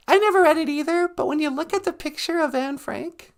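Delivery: very high, squeaky little character voice; high-voiced sidekick. Sidekick chatting with the host about the show, high character voice. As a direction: play the host's high-pitched little sidekick.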